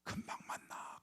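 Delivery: soft, hushed comfort; grandmother's tender farewell; gentle whisper. Retold or imitated. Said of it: "그러면서 웃으시는데".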